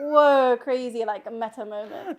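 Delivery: loud laughing whoa then fading; mock amazement. Picturing everyone's reaction to the Urdu, laughing mock whoa. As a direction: fake a wowed reaction, half laughing. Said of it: "it's gonna be like".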